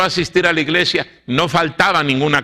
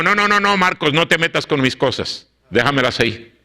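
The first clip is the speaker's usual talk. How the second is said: scolding mother; 3 semitones higher than usual. Retold or imitated. Mother scolding Marcos for touching her things, imitated sharp scold. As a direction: snap at the boy to leave her things. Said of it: "Y me regañó".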